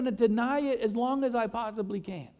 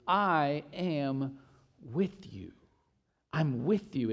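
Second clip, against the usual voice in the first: lower, softer, slow and tender; hushed tender promise; 6 semitones lower, 6 dB quieter, much slower than usual. Acted. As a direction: lay the promise down gently, almost a breath. Scripture quote, soft low.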